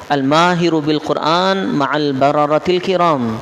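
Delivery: slow, measured Arabic quotation; careful, drawn-out recital; Arabic hadith quotation. Shown as a demonstration. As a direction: recite it slowly with long vowels. Quotes Arabic hadith to class.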